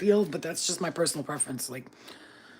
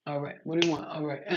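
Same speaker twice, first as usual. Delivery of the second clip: grudging mumble; 2 semitones lower, 4 dB quieter than usual. Retold or imitated. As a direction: mumble it like you couldn't care less.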